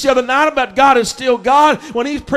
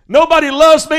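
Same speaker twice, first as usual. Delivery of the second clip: louder, higher mock complaint; mock whine; 3 semitones higher, 5 dB louder than usual. Preacher mimics a complaining churchgoer, hammed-up whining. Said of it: "Have you ever heard that said?".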